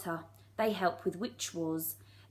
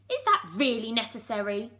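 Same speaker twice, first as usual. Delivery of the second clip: squeak; 2 semitones higher, 5 dB louder than usual. Acted. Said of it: "a little witch squeaked".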